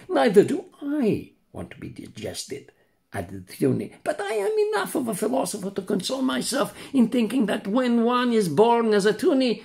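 high, far-off voice of a poor swallowed tunny; sad old tunny. Acted. Tunny introduces himself to the puppet, high and mournful. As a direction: play a mournful tunny fish.

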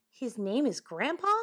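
mildly puzzled, rising query; doubtful question. Acted. Woodchuck asking about Grandpa's name, mildly doubtful. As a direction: ask it with a touch of doubt. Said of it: "looking doubtful".

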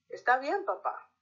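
a hint of a young daughter agreeing; daughter's voice. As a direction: answer her father as the agreeable daughter. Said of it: "los cambios de voces que hice".

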